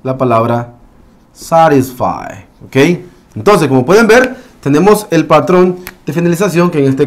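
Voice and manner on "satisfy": satisfy said slowly with tapped T, ending "fai"; slow satisfy, final Y as "eye"; long I sound. Shown as a demonstration. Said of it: "la Y también tendrá un sonido I". (satisfy lento, con la Y como "ai")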